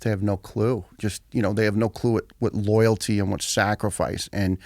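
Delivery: talking while chewing gum. Real, not acted. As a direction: speak around a wad of gum. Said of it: "do you have gum in your mouth".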